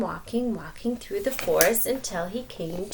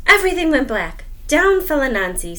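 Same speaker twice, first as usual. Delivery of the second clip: loud, higher dramatic telling; 6 semitones higher, 8 dB louder than usual. A narrator's reading. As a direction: build the fall for the kids. Dramatic fall narrated.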